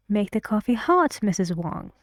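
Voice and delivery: "hot" rises as a suggestion; rising tune. Shown as a demonstration. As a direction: make "hot" go up gently.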